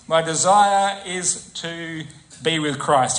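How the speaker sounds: "desire" stretched out slowly; slow emphatic. Shown as a demonstration. Preacher landing Paul's real desire, slowly. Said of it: "He doesn't focus on the new body".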